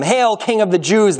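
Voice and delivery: high, slow mock salute. A narrator's reading. Soldiers salute the prisoner in purple robe, mocking. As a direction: hail him in scornful false homage. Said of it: "they mocked".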